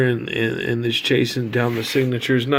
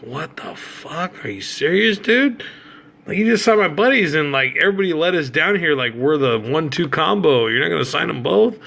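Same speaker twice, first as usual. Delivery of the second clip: retold disbelief; 5 semitones higher than usual. Fan protesting to the player who refused to sign, high and indignant. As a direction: act out being stunned and offended. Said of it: "And I'm like".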